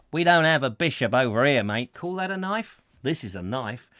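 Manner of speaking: lightly played Australian bloke; Australian accent. Australian explains there's no bishop over here, mock Australian accent. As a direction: put on a matey Australian accent. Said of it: "an Australian".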